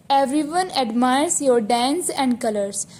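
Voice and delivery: slow dictation reading. Shown as a demonstration. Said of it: "teacher reads the sentence slowly".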